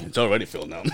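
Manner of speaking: talking with a numbed tongue. Real, not acted. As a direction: mouth numb from kava. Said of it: "If your tongue feels numb".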